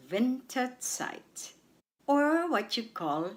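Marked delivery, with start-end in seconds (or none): 0.1-1.5 "Winterzeit" with weight on "Win", said slowly; stress on WIN. Shown as a demonstration. Teacher shows learners where stress falls, first syllable stressed. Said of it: "The stress is on Win".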